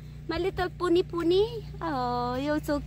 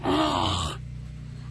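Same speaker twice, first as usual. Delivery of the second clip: choking gasp; sharp gasp; 4 dB quieter than usual. Real, not acted. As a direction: gasp for air. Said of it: "Are you choking?".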